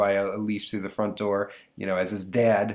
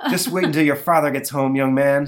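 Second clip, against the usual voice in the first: scolding mom; 5 semitones higher, 7 dB louder than usual. Acted.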